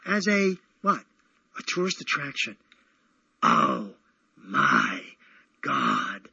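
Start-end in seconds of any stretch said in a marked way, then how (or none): 3.4-6.3 shocked dismay. Real, not acted. Shocked at Brooklyn as attraction.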